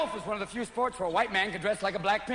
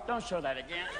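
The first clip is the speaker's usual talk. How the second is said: soft, low pained plea; 3 semitones lower, 6 dB quieter than usual. Retold or imitated. Man at home begging the TV, soft and pained. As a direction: wince and beg quietly.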